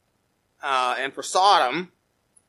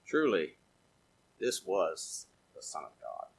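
much lower and softer, hushed awe; soldier's awed words; 10 semitones lower, 13 dB quieter than usual. Retold or imitated. Preacher voicing the Roman soldier at Calvary, hushed awe. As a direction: breathe it out in wonder. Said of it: "the Roman soldier said".

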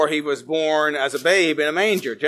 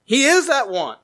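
high, rising proclamation; preaching climax; 8 semitones higher, 3 dB louder than usual. Real, not acted. Preacher proclaiming to the congregation, high and stirring. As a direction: lift it up like a revelation.

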